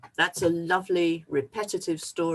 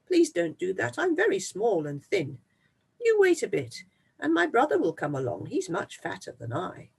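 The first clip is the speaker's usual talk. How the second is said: higher, urgent little goat plea; pleading goat; 4 semitones higher than usual. Acted. Little goat begging the troll again, higher and more urgent. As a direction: beg more, pitch it up.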